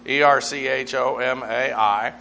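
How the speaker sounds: "E R C H O M A I" said letter by letter; spelling out erchomai. Shown as a demonstration. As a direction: spell E R C H O M A I for the class, one letter at a time. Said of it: "They came as erchomai".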